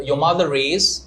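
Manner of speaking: mother joined to is by an R; linking R. Shown as a demonstration. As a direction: sound the R of mother before the vowel in is. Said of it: "if the next word starts".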